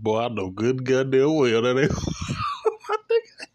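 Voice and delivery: high laughing yell of disbelief; laughing shout. Retold or imitated. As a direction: crack up while yelling it. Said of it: "I said".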